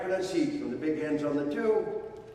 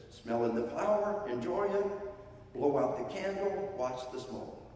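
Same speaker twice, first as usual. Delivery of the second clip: put-on modeling for a child; 3 semitones higher than usual. Shown as a demonstration. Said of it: "breathing on command".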